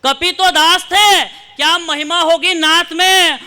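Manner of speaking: slow poetic declamation. Acted. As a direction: stretch each word for the crowd. Declaims refrain of poem.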